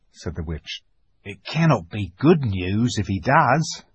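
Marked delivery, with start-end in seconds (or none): 1.2-3.8 dwarf. A narrator's reading. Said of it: "said the dwarf".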